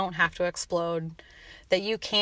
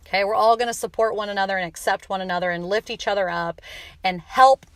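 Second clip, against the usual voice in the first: passionate overboard. Real, not acted. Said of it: "I got a little overboard there".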